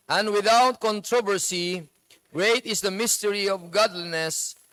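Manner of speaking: slow, measured scripture reading; Bible reading aloud. Acted. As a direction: read the verse slowly to the congregation. Congregation reads Bible together. (mabagal at taimtim na pagbasa ng Bibliya)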